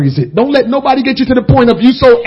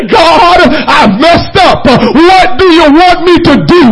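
higher, shouted plea, slow on messed up; shouted confession to God; 5 semitones higher, 4 dB louder, slower than usual. Retold or imitated. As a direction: cry out your mistake to God. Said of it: "go and say".

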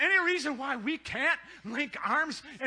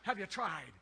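soft pointed question; 5 semitones lower, 8 dB quieter than usual. Acted. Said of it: "I would like to ask them".

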